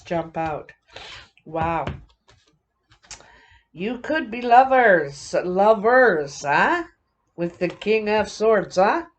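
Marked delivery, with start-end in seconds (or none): 3.7-9.1 louder mock French accent, playful; a light, teasing French accent, louder. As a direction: ham up a French accent while teasing about lovers. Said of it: "That's my French accent".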